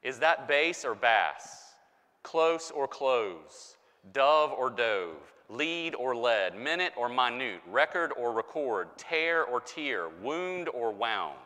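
slow, each word said two ways, "bass or bass" as fish then voice; heteronym pairs. Shown as a demonstration. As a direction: contrast each pair's two pronunciations slowly. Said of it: "look at these words".

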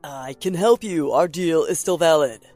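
loud, insistent character voice; urgent bargaining. A narrator's reading. Ben bargaining with an armed Max, loudly urgent. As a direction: try hard to talk your way out. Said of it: "Ben tries again to talk his way out".

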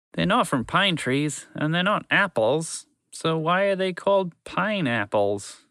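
slow, dreamy wondering; musing aloud. Acted. Horse musing to himself about pineapples, slow and dreamy. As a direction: puzzle over it slowly to yourself. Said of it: "he wondered aloud".

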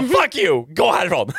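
irriterat utrop. Retold or imitated. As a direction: snap it out, annoyed, pitch jumping up. Acted yell at flies, retold. (irriterat, högt utrop)

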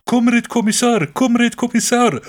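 high, loud frantic call; panicked soldier. Retold or imitated. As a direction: cry out to the commissar in panic. Panicked soldier calling commissar.

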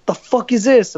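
high, incredulous mock cop; gruff cop impression. Cop at the window, sneering at the driver, pitched high. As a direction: play the cop baffled by the envelope.

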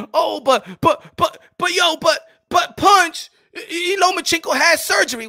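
high, loud, stammering protest; mock objector. Imitating a critic objecting to Punch, high and loud. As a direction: play the flustered critic cutting in. Mimics a doubter interrupting.

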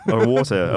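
put-on "Water" in his own non-American accent; own old pronunciation. Student repeating for his Long Island friend, "Water" non-American. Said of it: "whatever it was that I was saying".

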